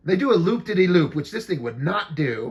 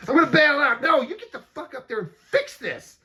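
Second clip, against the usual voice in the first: laughing mock panic; 8 semitones higher than usual. Acting panicked pilots, laughing.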